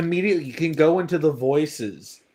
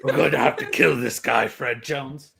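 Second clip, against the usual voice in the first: Doctor Claw voice; 3 semitones lower than usual. Retold or imitated. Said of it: "the Doctor Claw voice".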